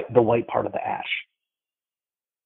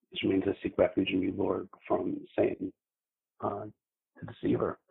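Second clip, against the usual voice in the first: normal talking voice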